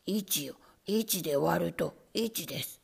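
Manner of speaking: lightly voiced nervous rat; rat teacher. A narrator's reading. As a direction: recite the sum carefully.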